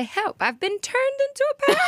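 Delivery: a hint of Kamala Harris; Maya Rudolph's Kamala Harris. Rereading the joke resolution as Kamala Harris. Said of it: "Maya Rudolph and Kamala Harris".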